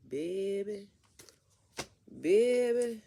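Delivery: high, loud exasperated cry of disbelief. Real, not acted. Single mom to viewers, exasperated high outcry.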